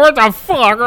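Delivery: loud, high what the fuck; shocked outburst. Real, not acted. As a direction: blurt it in disbelief. Outburst of disbelief.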